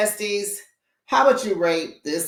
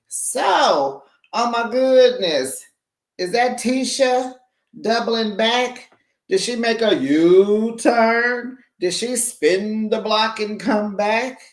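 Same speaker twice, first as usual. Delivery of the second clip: shocked; 6 semitones higher than usual. Real, not acted. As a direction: act scandalized, up high. Shocked gossip about Tisha returning.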